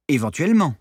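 dry mocking repeat of the word Éventuellement; a touch of sarcasm; ironic echo. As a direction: throw Éventuellement back at him with mild irony. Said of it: "ironisa Clara".

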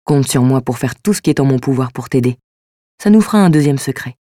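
smooth, suave man's line, lightly voiced; smooth-talking reassurance. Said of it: "m'a déclaré d'une voix suave".

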